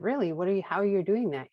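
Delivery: can't believe it, ask in wonder; amazed question. Retold or imitated. Sister questioning her newly sober brother, lightly amazed. Asking brother how he quit.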